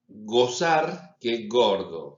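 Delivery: gozar and gordo slowed, open and closed O set apart; vowel contrast demo. Shown as a demonstration. Teacher contrasts the O of gozar and gordo slowly. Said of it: "no es lo mismo".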